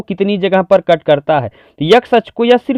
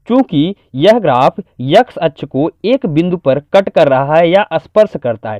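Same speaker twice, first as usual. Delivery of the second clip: slow, measured written-answer delivery; dictating. Shown as a demonstration. Teacher giving the full exam answer, measured dictation. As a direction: dictate it phrase by phrase. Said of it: "इसको पूरी तरीके से लिखेंगे".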